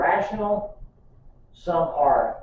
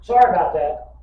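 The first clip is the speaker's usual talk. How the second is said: high, louder mock apology; mock oops; 4 semitones higher, 6 dB louder than usual. Preacher mocking a politician's excuse, hammed-up oops. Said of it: "He never had to say".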